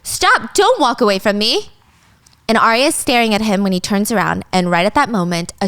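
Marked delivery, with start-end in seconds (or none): 0.0-1.7 mild mock yell, high on stop; retold scream. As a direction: call after him sharply. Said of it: "she screams".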